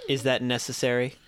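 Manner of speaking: lightly voiced character, low and dry; Waltz. GM as Waltz answering a stretching agent, low voice. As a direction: drop the pitch for an unimpressed question. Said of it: "You hear Waltz's voice".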